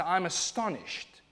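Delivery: slow, pointed I'm astonished; preacher showing a sharper I'm astonished; offended astonishment. Shown as a demonstration. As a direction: let the offence show, slowly. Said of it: "this might be more offensive when I say".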